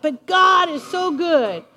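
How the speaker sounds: usual speaking voice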